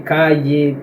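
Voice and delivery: calle with a y sound, ca-ye. Shown as a demonstration. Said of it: "Alguns países pronunciam". (calle com som de I)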